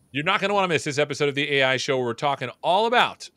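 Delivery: upbeat promo announcer read; first try at the show teaser; show intro read. Shown as a demonstration. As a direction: hype the episode like a trailer. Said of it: "intro take".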